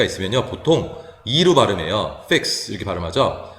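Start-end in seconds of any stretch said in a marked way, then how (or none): 2.2-2.7 'fix' with a lax i leaning to 에; opened short i. Shown as a demonstration. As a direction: say 'fix' with mouth a little more open. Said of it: "입을 좀 더 벌려서". ('fix'를 펙스에 가깝게 입을 벌려서)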